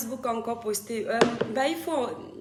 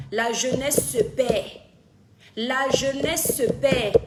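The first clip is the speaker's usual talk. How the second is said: slow, loud warning cry; alarmed proclamation; 6 dB louder, slower than usual. Real, not acted. Streamer warning parents about lost youth, slow loud proclamation. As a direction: proclaim it loudly, stretching each word.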